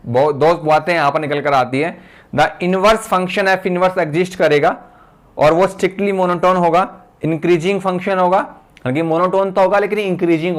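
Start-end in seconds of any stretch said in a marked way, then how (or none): 2.3-4.8 very slow, word by word, for note-taking; slow dictating teacher; slow dictation. Shown as a demonstration. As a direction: read it out slowly while students write. Dictating theorem for notes.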